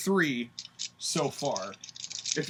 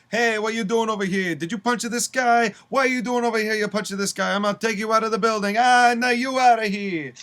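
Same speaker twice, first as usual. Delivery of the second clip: higher, louder referee voice, hammed up; mock referee; 6 semitones higher, 5 dB louder than usual. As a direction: bark it like an angry ref throwing someone out. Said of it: "The referee turns around and goes".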